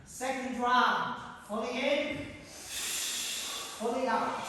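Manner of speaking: rally the class through the power breaths; coach calling out. Acted. Coach calls breathing round.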